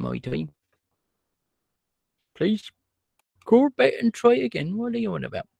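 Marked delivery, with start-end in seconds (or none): 2.3-5.5 high, louder mock plea to the phone; pleading with a phone recording, raised; high mock exasperation. Reacting to recorded message.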